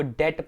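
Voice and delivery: "डेट" with no b sound; silent b. Shown as a demonstration. Teacher shows commerce students the reading, silent b. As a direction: say "डेट" as det, dropping the b. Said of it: "डीईबी टू को डेट पढ़ो".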